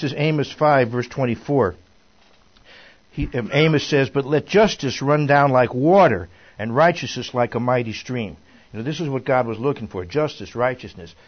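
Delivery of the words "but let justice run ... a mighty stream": scripture reading. A narrator's reading. Reads scripture aloud to group.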